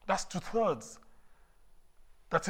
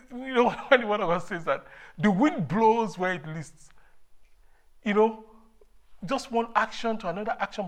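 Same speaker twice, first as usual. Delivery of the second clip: fervent new convert; 2 semitones higher than usual. Real, not acted. Retells own life since conversion.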